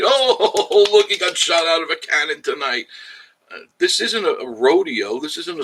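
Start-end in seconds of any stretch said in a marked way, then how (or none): 0.0-2.9 loud, high-pitched fake wonder; mock amazement. Streamer mimicking viewers who want cannon stunts, mock excited. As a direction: gasp like a dazzled circus crowd. Mocks a thrill-seeking audience's reaction.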